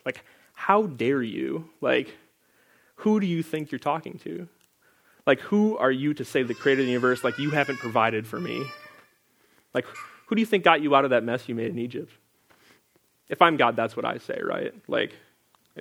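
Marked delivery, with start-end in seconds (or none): 0.5-12.1 mock indignant God. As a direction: play an offended God scolding, only lightly. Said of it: "like, I'd respond".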